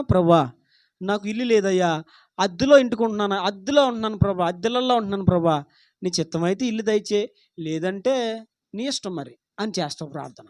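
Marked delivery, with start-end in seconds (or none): 0.0-9.4 humble prayer. Retold or imitated. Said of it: "నువ్వు ఎలా ప్రార్థన చేస్తావో చెప్పనా".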